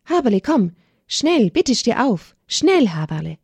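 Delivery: put-on mother urging her child up; urgent pleading. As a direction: press each word with urgency. Mother urges child out of danger.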